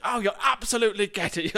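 high, theatrical gush of encouragement; Christopher Biggins. Retold or imitated. Friend retelling Biggins cheering on their pitch, high mock-theatrical gush. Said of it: "I can't do a Biggins voice".

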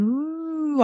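high spooky ooh; a quick playful ghost moan; ghostly wail. Pretend. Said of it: "I didn't do a ghost noise at the beginning".

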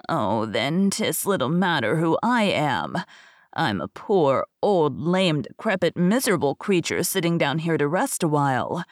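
a lightly voiced pitiful beggar; pleading beggar. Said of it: "replied the beggar man".

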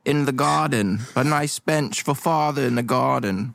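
earnest son. Acted. Player voices the son Beans.

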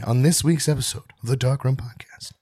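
mock radio announcer intro; a light hint of a radio host. Shown as a demonstration. Podcast host hamming up the intro, mock announcer voice. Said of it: "in a weird radio announcer voice".

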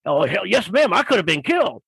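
lightly voiced biker agreeing heartily; emphatic biker. Biker answers the lady about his close call, imitated emphatic agreement. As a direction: imitate a storyteller milking the danger. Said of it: "listening to this guy tell his story".

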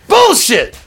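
loud, high outraged yell; screaming. Retold or imitated. Guitarist rejecting the bluesman's prank, screamed disbelief. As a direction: burst out in mock outrage. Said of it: "He starts screaming".

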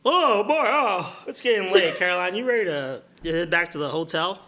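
a friend dropping by jovially; hearty friend. Acted. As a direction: boom a cheery hello to a friend. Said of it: "Bill, and Sarah walk by".

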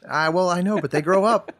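laughing through the words. Real, not acted. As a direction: chuckle it out, loud and high. Laughs at own joke.

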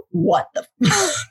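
imitating a friend fleeing to the bathroom; friend freaked out. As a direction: drag out the swear, stunned. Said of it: "And she's like".

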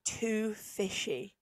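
slow flat repeat of too fishy; deadpan disbelief. Retold or imitated. Waitress repeating the customer's complaint back in slow disbelief. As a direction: repeat it back slowly, stunned. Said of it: "I look at him and I'm like".

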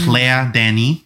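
slow, careful French pronunciation; French accent. Shown as a demonstration. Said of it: "I have a terrible French accent".

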